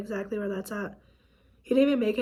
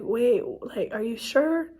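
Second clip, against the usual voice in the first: retold disbelief; slower than usual. Wife questioning caller about husband's death, retold disbelief. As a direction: re-enact asking for confirmation in disbelief.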